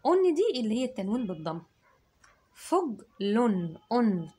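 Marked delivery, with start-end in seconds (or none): 2.5-4.3 فج لن أن very slow, nunation sounded; stretched tanween. Shown as a demonstration. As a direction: draw out the أن at the end. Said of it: "يديله صوت الأن". (تنوين بالضم ممدود)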